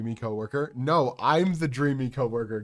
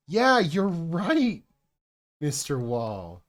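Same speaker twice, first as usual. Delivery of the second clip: higher, louder, very slow mock drawl; mock lady's reply; 6 semitones higher, 6 dB louder, much slower than usual. Lady at the shop answering him, in a slow, high mock drawl. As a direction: draw it out high and loud, teasing her. Bipolar lady mocked, retold.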